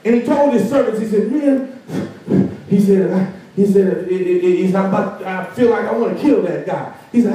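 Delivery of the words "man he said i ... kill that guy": mock fury. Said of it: "storming mad".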